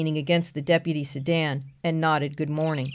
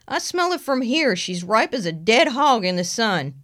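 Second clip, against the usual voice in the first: country deputy voice; 5 semitones higher than usual. Acted. Frank replies.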